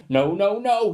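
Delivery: booming, high and loud refusal; thundering no. Acted. Teacher thundering at Rebel, loud and high. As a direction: thunder it at the girl. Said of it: "he thundered".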